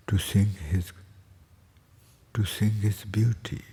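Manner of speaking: slow phrases spaced by long pauses; contemplative spiritual teaching. Acted. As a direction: dwell on each blessing, unhurried. Slow devotional rendering in English. (ਹੌਲੀ, ਰੁਕ-ਰੁਕ ਕੇ ਅਧਿਆਤਮਕ ਵਿਆਖਿਆ)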